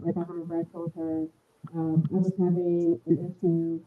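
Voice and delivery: muffled. Real, not acted. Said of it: "You're muffled again".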